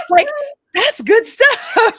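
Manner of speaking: high, loud and gleeful; bubbling over with delight; excited. Real, not acted. Excited recap of unpacking.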